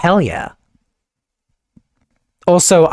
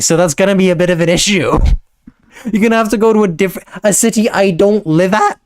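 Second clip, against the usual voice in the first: laughing; 3 semitones higher than usual. Real, not acted. Laughing at the threat.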